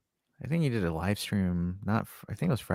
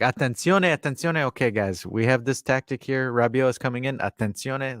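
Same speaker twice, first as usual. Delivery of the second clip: imitated Italian alert, higher on each attenzione; breaking-news streamer; 3 semitones higher than usual. Streamer breaking tactics news to his viewers, announcing. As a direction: lightly mimic an excited news announcement. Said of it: "whenever news breaks, he's like".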